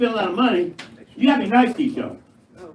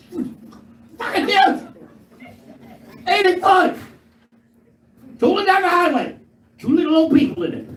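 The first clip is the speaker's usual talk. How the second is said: excited rant; 10 semitones higher than usual. Real, not acted. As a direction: hammer the size of the RV. Ranting about giant RVs.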